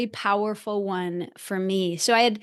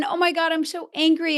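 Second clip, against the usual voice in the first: put-on angry inner child; 7 semitones higher than usual.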